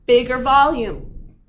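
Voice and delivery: slow, loud "Bigger volume"; emphatic. Real, not acted. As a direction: hammer the key term home. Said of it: "teacher emphasis".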